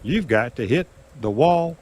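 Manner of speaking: a hint of a strict casino dealer telling him off; stickman's order.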